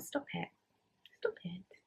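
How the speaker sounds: hushed, soft, overcome with emotion. Talking about Amy, telling herself to stop while getting emotional. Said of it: "I'm getting emotional".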